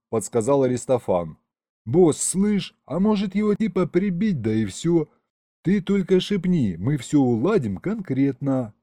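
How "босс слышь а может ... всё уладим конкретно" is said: a streetwise henchman voice, eager to help; thuggish demon. Acted. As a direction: offer the hit like a small-time gangster. Dämon bietet Mord an.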